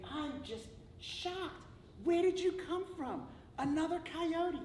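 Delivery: high, slow astonished voice; stunned disbelief; shocked coyote. Acted. First coyote asks the second where he came from, astonished.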